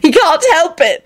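high, drawn-out protest; acted insistent, high-pitched plea; loud. A narrator's reading. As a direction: call it out in their defence. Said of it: "Elizabeth said loudly".

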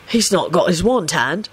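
mildly soothing tone; understated placating voice. A narrator's reading. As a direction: explain it soothingly. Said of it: "Sirius told him soothingly".

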